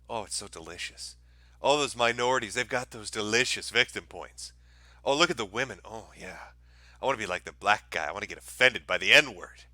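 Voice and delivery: drool over victim points in a mock sigh; mock whiny victim. Host voices a victim-seeking guy.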